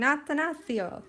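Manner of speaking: light Italian accent on Attanasio; a touch of Italian accent, rolled out playfully. Shown as a demonstration. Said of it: "like, an Italian accent".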